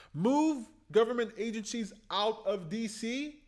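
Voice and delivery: thrilled repetition of the idea; excited. Real, not acted. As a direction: proclaim it like a revelation. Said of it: "That's fantastic".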